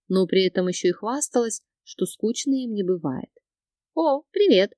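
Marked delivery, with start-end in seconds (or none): 3.9-4.7 cheerful greeting. A narrator's reading. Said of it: "улыбнулась Вика".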